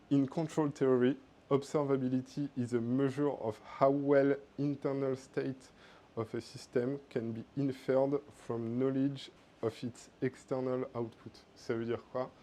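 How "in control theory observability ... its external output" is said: careful English read with a French accent; best English accent. Shown as a demonstration. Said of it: "mon meilleur accent".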